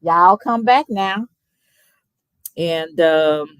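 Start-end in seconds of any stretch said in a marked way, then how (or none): 0.0-1.3 playful country send-off, lightly imitated; a hint of hillbilly hospitality; Beverly Hillbillies. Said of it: "Beverly Hillbillies used to say".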